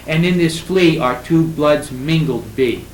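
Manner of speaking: slow, measured line of poetry; verse recitation. Shown as a demonstration. Lecturer shows the class the moved verb, reciting. Put that in normal prose order.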